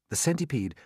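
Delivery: ordinary delivery, nothing marked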